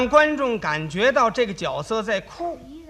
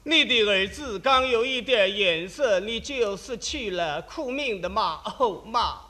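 a hint of affected stage-voice sobbing, slow; lightly mock the old stagey lament; hammed-up stage crying; slower than usual. Mocking an old-style actor's affected lament to his mother. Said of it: "他这味儿".

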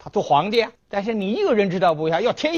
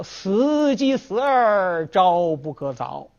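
defiant refusal; 3 semitones higher, much slower than usual. Acted. Scholar refuses, defying death.

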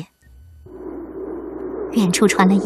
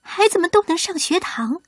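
earnest pleading; 3 semitones higher than usual. Acted. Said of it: "女孩就这样不停地说着".

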